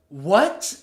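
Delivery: loud, rising disbelief; taken aback, voice swinging up; incredulous. Retold or imitated. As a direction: re-enact a baffled outburst. Reacting in disbelief to her claim.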